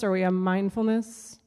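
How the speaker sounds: sarcastic edge on "mindfulness". Real, not acted. Comic admitting her mindfulness habit to the crowd, sarcastic. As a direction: say "mindfulness" as if you can't take it seriously. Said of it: "like, sarcastically".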